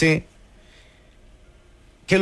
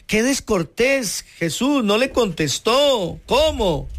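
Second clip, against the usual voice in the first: indignant outburst, pitched higher and slowed; 4 semitones higher than usual. Retold or imitated. A bystander, indignant that Jesus ignores her, higher and slow. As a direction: act shocked at the rudeness, voice up. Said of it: "Tal vez uno diría".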